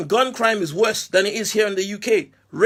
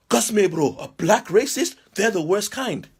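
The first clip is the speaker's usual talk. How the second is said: mocking the critic; 3 semitones higher than usual. Mimicking the man who called him a black racist, sneering. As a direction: play the critic as a fool.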